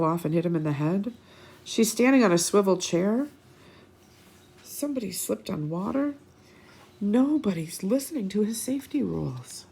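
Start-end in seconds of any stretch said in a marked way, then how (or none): 4.6-9.7 whisper. Real, not acted. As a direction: whisper it like a secret. Aside while reading to kids.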